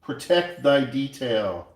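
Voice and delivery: slow, loud, high proclamation; mock-solemn motto. Coin maker quoting a motto while wrapping the coin, loud proclamation. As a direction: proclaim it like an old commandment. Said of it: "That's what they say".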